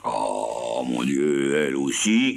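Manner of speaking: un cri surpris à peine appuyé; cri stupéfait. Acted. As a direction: stupeur légère de vieil homme. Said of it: "cria monsieur Seguin, stupéfait". (Seguin stupéfait, cri léger)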